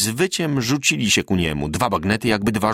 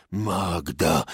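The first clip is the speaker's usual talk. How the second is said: foreign soldiers' cry; 5 semitones lower, 4 dB quieter than usual. A narrator's reading. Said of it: "wychodzi okrzyk".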